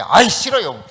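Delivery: loud whiny mock refusal; tantrum. Believer refusing the Holy Spirit, throwing a tantrum. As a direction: blurt it out like a peevish child. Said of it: "막 성질 내고 그러면".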